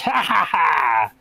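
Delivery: slow witch laugh; witch cackle. Retold or imitated. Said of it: "cried the witch".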